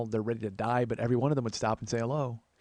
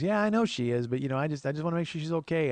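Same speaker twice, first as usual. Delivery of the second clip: lightly voiced neighbor lady, pitched up; Dottie; 5 semitones higher than usual. Neighbor checking on his mom, higher lady voice. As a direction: fret a little in a higher woman's voice. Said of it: "she goes".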